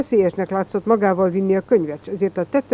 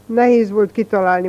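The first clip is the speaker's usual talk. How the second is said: contemptuous; 2 semitones higher, 4 dB louder than usual. Acted. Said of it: "mondta megvető arccal Merezsényi".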